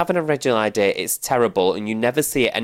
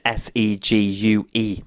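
slow spelling; slower than usual. Shown as a demonstration. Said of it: "segue as in let's move on".

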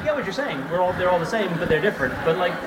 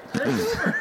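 squeaky high ending. Retold or imitated. Mock story ending.

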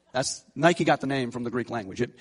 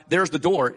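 "door" given the main weight; firm, demonstrative push on "door"; stress on door; 4 dB louder than usual. Shown as a demonstration. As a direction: point at it with emphasis on "door". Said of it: "and the emphasis on the door".

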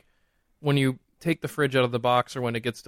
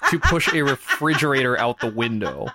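laughing plea; 2 semitones higher, 4 dB louder, slower than usual. Real, not acted.

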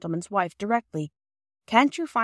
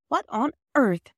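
surprised; 6 semitones higher than usual. A narrator's reading. Surprised at muddy children.

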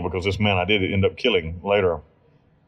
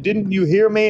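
mock threat; 10 semitones higher than usual. Gunman threatening the narrator.

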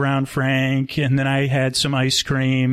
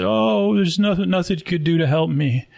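mock weeping; 5 semitones higher than usual. Weeping man refuses a stranger's offer of help, mock weeping. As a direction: imitate a despairing man crying, start high and sink. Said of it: "like, a weeping".

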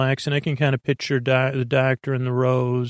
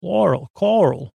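higher, put-on Long Island accent on Plural and Coral; bad Long Island accent; 5 semitones higher than usual. Host attempting Long Island accent, self-mocking. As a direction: fake a Long Island accent, admittedly badly. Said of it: "that's not a good Long Island accent".

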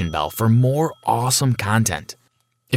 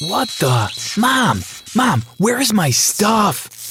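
panicked yell for mom; 11 semitones higher, slower than usual. Acted. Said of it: "I screamed".

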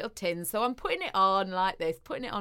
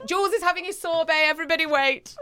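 a touch of grand announcer, higher; mock announcement; 7 semitones higher, faster than usual. Jokingly telling everyone to wait for the sorbet, slightly higher. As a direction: announce it to the room in jest.

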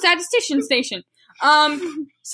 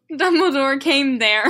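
amused reading; slower than usual. Real, not acted. Reading a bad line while amused.

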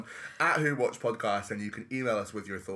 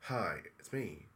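a hint of a creepy goblin introduction; lightly voiced goblin king; 6 semitones lower, 10 dB quieter than usual. Host introducing himself as Goblin King, low and soft.

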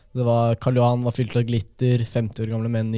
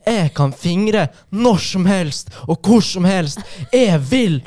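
loud, high, drawn-out drunk dialect impression; mock a defiant drunk woman in dialect; full feminist; 7 semitones higher, 5 dB louder, much slower than usual. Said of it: "Så kommer det en sånn full, eh, feminist". (etterligning av full, sint feminist på dialekt)

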